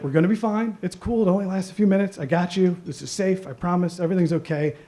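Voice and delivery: put-on lightly calm the scared kid down; reassuring dad. Dad reassuring his scared son on the ride, gently. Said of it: "he's like".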